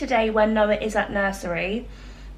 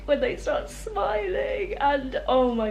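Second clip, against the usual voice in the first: tearful; 5 semitones higher, slower than usual. Real, not acted. Welling up talking about baby.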